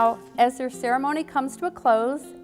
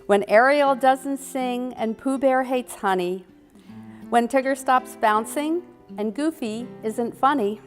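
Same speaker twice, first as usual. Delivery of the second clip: reciting a rhyme; 3 semitones higher than usual. Shown as a demonstration. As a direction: read it like a playful verse. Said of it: "share one of their favorite Disney rhymes".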